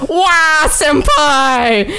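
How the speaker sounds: high, hammed-up crying wail; mock wailing. Reader playing the heartbroken lover in a fan fiction, mock crying wail. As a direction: fake a melodramatic sob of farewell.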